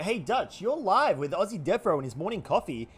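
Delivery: playful breakfast host voice; morning show host. Acted. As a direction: announce the caller live on air. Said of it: "I would go".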